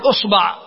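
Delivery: أصبع said usba', u then a; short u, then open a in أصبع; damma on the hamza. Shown as a demonstration. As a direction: demonstrate أصبع as US-BA'. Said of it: "ثم تأتي إلى الضمة فتقول".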